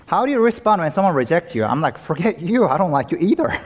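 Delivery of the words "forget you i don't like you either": higher-pitched, mock-offended comeback; dismissive retort. Preacher acting out his answer to being rejected, dismissive retort. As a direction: toss the rejection right back.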